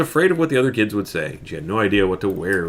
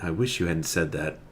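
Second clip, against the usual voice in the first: softer, lower groaned line; a girl regretting the advice, groaning; 6 semitones lower, 9 dB quieter than usual. A narrator's reading. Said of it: "Camilla groaned".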